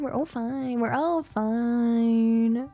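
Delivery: high, forced cheer fading; manic denial. Pretend. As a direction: insist you're fine, cracking. Manic "we're fine" bit.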